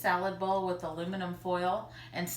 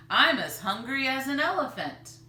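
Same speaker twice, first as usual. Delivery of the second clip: laughing; 6 semitones higher, 7 dB louder than usual. Acted. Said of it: "Grandfather Tappleton laughed".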